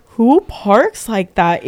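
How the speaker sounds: slow, drawn-out mock outrage; incredulous retold complaint; retold indignation. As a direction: stretch the question in disbelief. Retelling her outrage over the parking.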